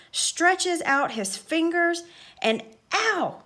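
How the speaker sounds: excited commentary. Acted. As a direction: call the chase as it builds. The speaker narrating chase as commentator.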